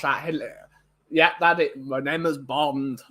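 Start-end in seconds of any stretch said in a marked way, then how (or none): 1.8-3.0 slow, lower mock Arnie line; Arnie as Bond. Friend pitching Arnie as Bond, slow Arnie impression. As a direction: deliver it like a lumbering action hero. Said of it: "Arnie as Bond".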